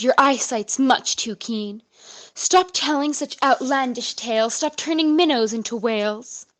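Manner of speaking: lightly voiced stern father scolding; a touch of a father's reproach; a hint of a stern dad. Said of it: "he looks at me and sternly says".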